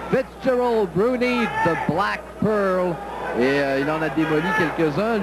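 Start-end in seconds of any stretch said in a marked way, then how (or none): 0.1-2.9 slow, drawn-out fighter nickname; hyped-up introduction. Real, not acted. Commentator hypes fighter's nickname. (présentation enthousiaste du boxeur)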